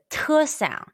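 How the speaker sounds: "te" high, with a strong puff of air; aspirated t. Shown as a demonstration. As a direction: push air out on the t of "te". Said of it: "push more air out when you say it".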